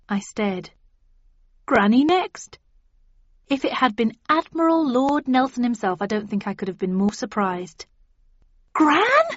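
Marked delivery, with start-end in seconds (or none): 1.6-2.6 high, loud astonished question; surprised. A narrator's reading. Recognizes Gran. 8.7-9.3 very high, loud astonished cry; exclaimed. A narrator's reading. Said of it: "I exclaimed".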